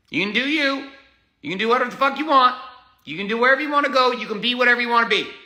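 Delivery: building into a heated tirade; heated rising rant. Real, not acted. Talking back to critics, heated and rising.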